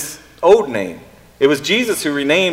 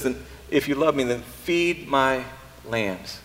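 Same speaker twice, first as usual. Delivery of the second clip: tender quiet command; 8 dB quieter, slower than usual. Acted. Jesus voiced tenderly to Peter.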